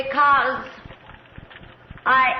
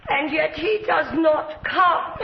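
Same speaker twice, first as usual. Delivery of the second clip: rising cry. Acted. Countess raving among her victims.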